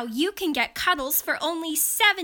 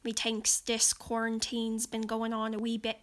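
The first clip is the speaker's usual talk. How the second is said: put-on Irish accent; 3 semitones lower, 5 dB quieter, faster than usual. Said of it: "accents I can portray authentically".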